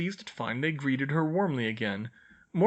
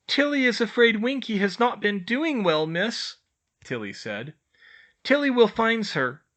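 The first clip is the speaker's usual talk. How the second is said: high elf voice, a touch of concern; worried old elf; 10 semitones higher, 5 dB louder than usual. A narrator's reading. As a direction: break the bad news gently. Tilly reports Winky sadly.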